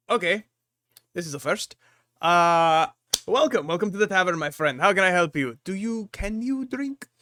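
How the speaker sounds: welcoming host thrown by an unusual guest; hint of a baffled innkeeper; lightly voiced puzzled barkeeper. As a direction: greet heartily, then rise into a doubtful question.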